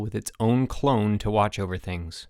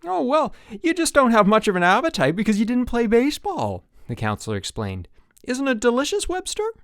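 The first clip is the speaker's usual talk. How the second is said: high and louder, bubbly; peppy counselor; 13 semitones higher, 4 dB louder than usual. A narrator's reading. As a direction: push the cheer hard. Counselor explains cheerily.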